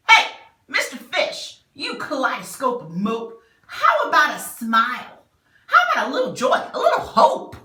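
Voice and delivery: high, loud and teasing, breaking into laughter; cheeky squid voice. Acted. Squid teasing the sad fish to cheer up, high and giggly. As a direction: tease him like a slightly rude squid.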